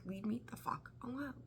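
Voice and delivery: a hissed, fed-up whisper. Retold or imitated. Scorpio telling a clingy person off, whispered. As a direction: breathe it out like you're cornered.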